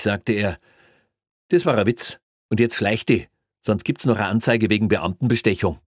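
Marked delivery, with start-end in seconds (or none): 1.5-5.8 raised, stern policeman voice; a stern cop shooing off; stern Bavarian cop. Acted.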